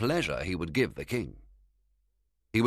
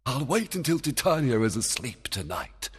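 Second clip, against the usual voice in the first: Oberon scheming; 6 semitones higher than usual. A narrator's reading. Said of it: "Oberon thought".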